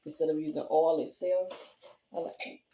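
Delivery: hiccuping mid-sentence; hiccups. Real, not acted. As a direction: talk through the hiccups. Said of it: "got the hiccups".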